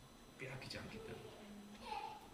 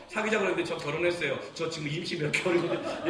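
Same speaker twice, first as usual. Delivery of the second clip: mock awkward confession; 3 semitones higher, 4 dB louder than usual.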